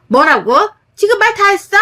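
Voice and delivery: 훨씬 높게 꽥 지르는 반문; 어이없어 날카롭게 되받아쳐; 발끈한 시누이. Acted. 시누이가 발끈함. (올케 말에 발끈한 시누이의 날 선 반문)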